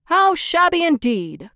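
hammed-up agreeing councilors; councilors' echo. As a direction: parrot the mayor eagerly. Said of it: "cried the town councilors".

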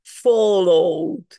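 "Followed" drawn out as two syllables, ending directly in D; absorbed E. Shown as a demonstration. Teacher showing how she will pronounce it, absorbed E. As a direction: stretch "Followed" with no E sound before the D. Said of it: "cómo lo voy a pronunciar".

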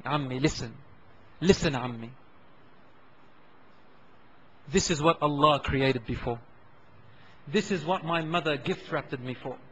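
put-on the dying boy comforts his uncle quietly; dying whisper-like softness. Dying boy speaks softly.

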